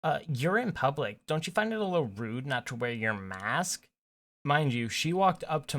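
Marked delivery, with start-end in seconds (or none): 0.0-3.9 lightly voiced Karen, swooping pitch; mildly put-on indignant Karen voice; Karen accent. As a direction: imitate an affronted Karen complaining. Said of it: "says in that Karen accent".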